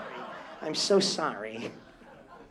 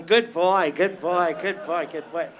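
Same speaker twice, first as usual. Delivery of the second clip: mock dog praise; 8 dB louder than usual.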